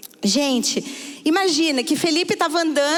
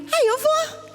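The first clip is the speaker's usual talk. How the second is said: flustered; 13 semitones higher, slower than usual. Retold or imitated. Flustered answer to patient.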